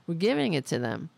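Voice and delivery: mock Democrat voice.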